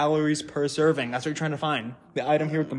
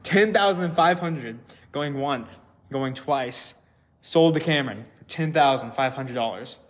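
auctioneer. Acted. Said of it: "me counting down".

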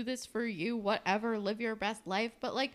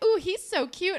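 high, loud imitated crush squeal; exaggerated swooning voice; mock gushing; 8 semitones higher, 6 dB louder than usual. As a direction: gush over a cute boy, hammed up. Acting Shantae gushing over a boy.

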